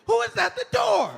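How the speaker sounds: very high, loud yapping dog voice; frantic, high-pitched mock dog shouting; excitable talking dog. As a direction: shout it like an overexcited dog at the door. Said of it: "If my dog could talk".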